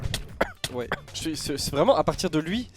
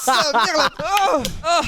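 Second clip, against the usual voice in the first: mouth on fire; 11 semitones higher, 5 dB louder, slower than usual. Real, not acted. Gasping at the burning sauce.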